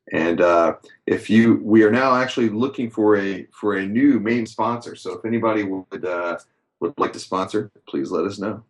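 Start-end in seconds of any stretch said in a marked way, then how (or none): 5.2-8.6 robotic glitchy audio. Real, not acted. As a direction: sound like a broken robot. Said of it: "you sound a little bit like a robot".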